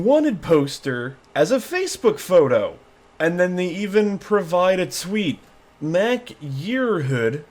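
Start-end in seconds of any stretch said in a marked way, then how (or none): 5.8-7.4 Mac Yearhood drawn out slowly in a stray accent, rising at the end. Real, not acted. Vlogger reading a suspect's name, in a stray accent. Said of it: "I don't know why I had an accent to that".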